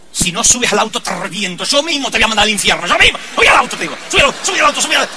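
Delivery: mock angry father. Father yelling at kids to get in the car, hammed-up. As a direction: play the frantic dad yelling at the kids.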